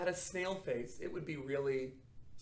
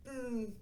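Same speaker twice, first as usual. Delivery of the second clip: tight snail hum; 6 semitones higher than usual. Shown as a demonstration. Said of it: "Snail face".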